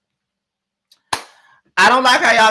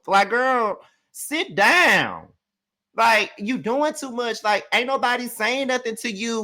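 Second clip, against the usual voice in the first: sassy scolding; 5 semitones higher, slower than usual. Acted. Scolding cast member directly.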